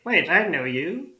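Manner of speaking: high, loud goblin cry of recognition; elderly goblin. Acted. Goblin suddenly recognises Mona, delighted high elderly goblin. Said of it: "and instantly goes".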